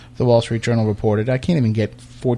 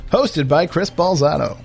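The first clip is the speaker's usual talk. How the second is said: announcer voice; 2 semitones higher, slower than usual. Pretend. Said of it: "my lame announcer voice".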